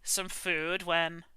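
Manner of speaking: easygoing storyteller telling of the witch; a hint of a folksy old-timer spinning his tale; lightly voiced folksy traveler. Traveler telling the party his tale, lightly folksy. GM narrates as NPC.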